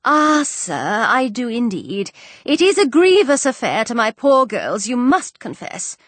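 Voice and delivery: plaintive mother's voice, lightly acted; aggrieved mother. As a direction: lament your lot as an aggrieved mother. Voices Missus Bennet in dialogue.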